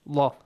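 Allah with a dark, open 'aw' after the lam; heavy ah sound. Shown as a demonstration. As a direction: say Allah's last syllable as a heavy "LAW". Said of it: "like with an ah sound".

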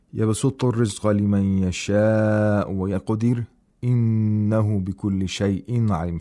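measured tajweed recitation; Quran recitation. Shown as a demonstration. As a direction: recite the verse with long vowels. Recites the verse.

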